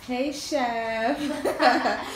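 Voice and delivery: loud, laughing call to the chef. Real, not acted. Calling out to the chef.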